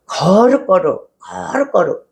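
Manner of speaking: drawn-out, solemn "holy holy"; mock pious prayer. Preacher contrasting pious prayer with honest prayer, mock solemn. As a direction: imitate a formal holy prayer, stretching each word. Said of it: "그런 기도".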